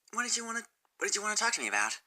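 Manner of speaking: gentle and hesitant, almost apologizing; shy Fluttershy. Acted. Fluttershy voiced.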